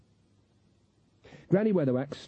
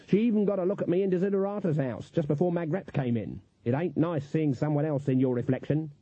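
put-on higher-pitched, uneasy old witch; uneasy Granny; 4 semitones higher than usual. Granny telling of being watched through mirrors, uneasy.

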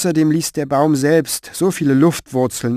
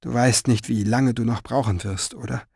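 disheartened; 5 dB quieter than usual. Acted. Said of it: "Ihre Stimme klang so verzagt".

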